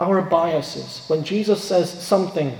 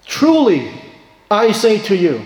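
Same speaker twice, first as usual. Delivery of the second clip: solemn; 5 semitones higher, 5 dB louder than usual. Acted. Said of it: "the most solemn introduction".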